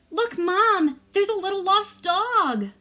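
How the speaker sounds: put-on high, eager child voice; little girl voice. A narrator's reading. Small girl telling her mom, high and eager. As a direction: excitedly point out the dog. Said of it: "small girl said".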